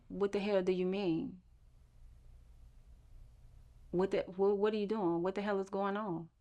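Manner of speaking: quiet furious questioning of God; hushed outburst at God. Retold or imitated. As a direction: hiss it under your breath at God. Quiet angry prayer to God.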